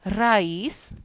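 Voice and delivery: "raiz" split as ra-IZ; careful two-syllable "raiz"; vowels in hiatus. Shown as a demonstration. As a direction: stress the i of "raiz" apart from the a. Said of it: "separará".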